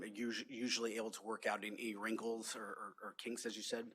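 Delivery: talking around a wad of gum; chewing gum. Real, not acted. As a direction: speak while chewing gum. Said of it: "I wouldn't have had gum in my mouth".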